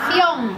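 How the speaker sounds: "ción" as one full, projected syllable; articulated with moving lips. Shown as a demonstration. Coach corrects the class's last syllable, well articulated. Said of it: "Quiero que mováis los labios".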